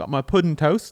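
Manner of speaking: bad put-on British accent, high and loud. Bantering with another speaker, trying a bad British accent. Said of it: "I'm just gonna keep doing bad".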